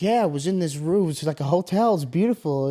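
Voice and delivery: lightly voiced friend raving about his night; a hint of a friend's dreamy storytelling; Josh impression. Friend telling stories about the hotel, lightly imitated. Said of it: "That's such a good Josh impression".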